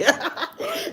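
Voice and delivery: high breathy burst of laughter; real laughter; laughing fit. Real, not acted. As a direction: crack up at the chat. Streamer cracking up at chat.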